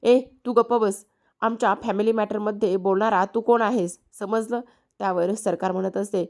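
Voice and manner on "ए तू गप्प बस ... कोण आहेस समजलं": mock angry snap. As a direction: sharply shush him, half-acted. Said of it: "सखी आहे ती कानावर चिडते".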